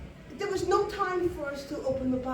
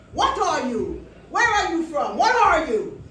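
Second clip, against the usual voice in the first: louder, rising barrage of questions; demanding interrogation; 3 semitones higher, 9 dB louder than usual. Retold or imitated. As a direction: grill her, building in pitch and force. Waiter interrogating her, acted out.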